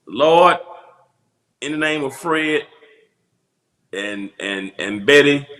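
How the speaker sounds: preacher praying over the congregation, tongue in cheek; mock church prayer. Comic preacher praying for Bam Bam, mock solemn prayer. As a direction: lead the flock in a jokey prayer.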